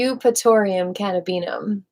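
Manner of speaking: "Eupatorium cannabinum" sounded out carefully, unsure; tentative "Eupatorium cannabinum", testing each syllable; unsure pronunciation. Shown as a demonstration. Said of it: "Is that how you say it?".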